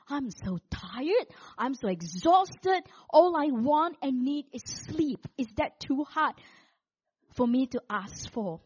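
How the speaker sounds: slow, drawn-out weary plea; crying out. Retold or imitated. Exhausted woman to God at the ironing board, crying out. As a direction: plead slowly, as if worn out. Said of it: "I cried to the Lord".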